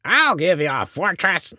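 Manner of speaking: high-pitched indignant threat; angrier. A narrator's reading. Eliza Grubb about to grab her rifle, angrier. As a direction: threaten the intruder in rising outrage. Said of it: "getting angrier".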